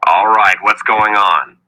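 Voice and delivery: loud annoyed demand; angry. Acted. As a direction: snap at him, fed up. Richard angry at wizard.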